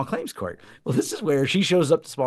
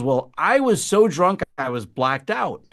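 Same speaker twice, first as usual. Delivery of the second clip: imitating drunk woman; 3 dB louder, slower than usual. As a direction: whine it like a drunk making excuses. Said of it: "And she goes".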